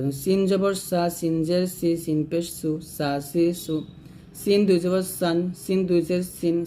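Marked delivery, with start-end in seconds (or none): 0.2-3.7 "সা সি সু" with a thin, light s; thin seen. Shown as a demonstration. Teacher drilling seen, thin so it differs from sad. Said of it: "পাতলা করে হবে".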